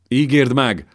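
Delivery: mother begs the king for a messenger today; desperate plea. A narrator's reading. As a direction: push the demand out.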